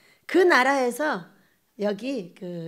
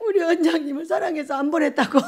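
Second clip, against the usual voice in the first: laughing and crying; 3 semitones higher than usual. Real, not acted. Laughing through tears.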